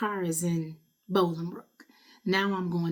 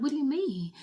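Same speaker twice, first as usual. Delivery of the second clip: falling apart; 8 semitones higher than usual. Retold or imitated. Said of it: "just falling apart".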